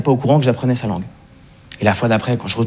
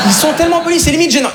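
exaggerated; 13 semitones higher than usual. Real, not acted. Exaggerated about Montreal politeness.

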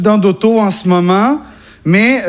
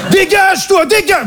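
parisian shout; 10 semitones higher than usual. Retold or imitated. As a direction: bark it out like an angry Parisian. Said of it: "le parisien de base". (accent parisien, crié fort et aigu)

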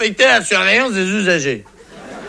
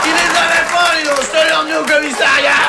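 triumphant shout; 5 semitones higher than usual. Acted. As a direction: shout it out like a proud cop. (cri triomphant de flic fier de lui)

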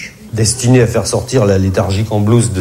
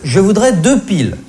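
polite request; 8 semitones higher than usual. Acted. Client poli demande des piles.

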